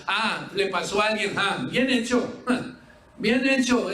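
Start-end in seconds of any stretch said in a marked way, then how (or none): 1.4-3.9 burla con risa. Pretend. Burla del mal ajeno.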